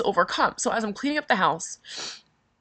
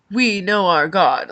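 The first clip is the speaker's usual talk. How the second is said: slow, firm and louder, chin up; strong and defiant; 5 dB louder, slower than usual. Retold or imitated. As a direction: stand before the fire unbowed. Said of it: "like, really strong".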